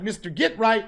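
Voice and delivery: stiff, proper "Mister Get Right" with a rising tune; too-formal name. Shown as a demonstration. The wrong way to greet a street friend, stiff and polite. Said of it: "you can't be like".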